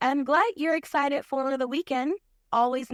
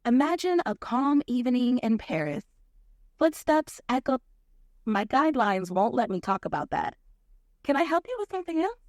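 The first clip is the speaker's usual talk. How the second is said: put-on toned-down French accent. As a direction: tell it with a smooth French accent. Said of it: "switch to a French accent".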